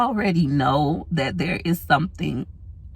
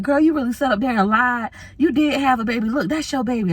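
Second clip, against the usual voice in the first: busted you; 7 semitones higher than usual. Retold or imitated. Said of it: "They was like".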